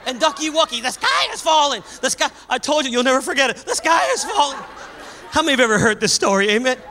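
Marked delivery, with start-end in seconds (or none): 0.8-2.3 panicked duck. Acted. Ducky Wucky panicking. 3.6-4.6 panicked duck. Acted. Ducky Wucky panicking.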